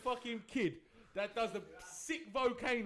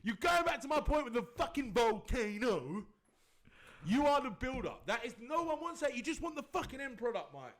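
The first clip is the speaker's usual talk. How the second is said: higher and louder, slowed and emphatic; heated scolding; 6 semitones higher, 3 dB louder than usual. Real, not acted. Scolding his cohost over the build-up, heated and loud. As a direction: hammer the point home.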